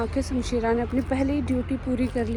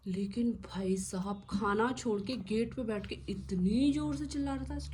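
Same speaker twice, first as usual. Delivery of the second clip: whispered aside; 6 dB quieter than usual. Real, not acted. Owner telling how the dog left his food, whispered.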